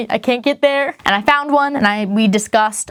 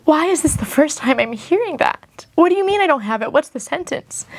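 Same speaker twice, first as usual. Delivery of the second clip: higher, pressing, incredulous questions; floored and pushing back; indignant disbelief; 6 semitones higher than usual. Retold or imitated. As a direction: demand an explanation, stunned. Retold demand to the mediator.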